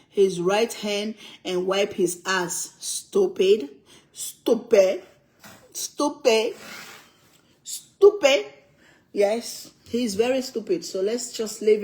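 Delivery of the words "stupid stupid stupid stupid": stack the insult, each one bigger; rising scorn; building scorn. Real, not acted.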